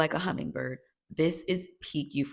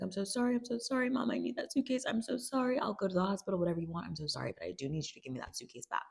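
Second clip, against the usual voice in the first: quick run of apologies, sinking quieter; regretful pleading; 6 dB quieter, faster than usual. Retold or imitated. Rue begs Mom for the suitcase, regretful pleading. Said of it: "she's feeling regret for what she's done".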